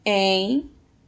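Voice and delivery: EMPRESTO slowly as EM... PRES... TO; slow, separated beats on EMPRESTO; syllable by syllable. Shown as a demonstration. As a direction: sound out EMPRESTO for pupils to read along. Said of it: "vamos lá, leia comigo".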